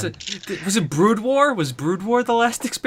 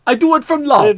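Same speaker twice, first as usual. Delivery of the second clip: put-on Russian accent; 4 semitones higher, 4 dB louder than usual.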